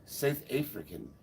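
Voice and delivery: soft imitation South African vowels; attempted South African accent. Shown as a demonstration. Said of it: "Does that sound right?".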